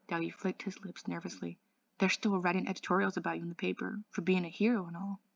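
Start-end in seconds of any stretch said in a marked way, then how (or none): 2.0-5.2 too fast and calm. Acted. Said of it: "talking too fast and too calmly".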